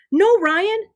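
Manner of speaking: put-on high, protesting kid; urgent refusal. A narrator's reading. Ben shields the mouse from Ryan, urgent.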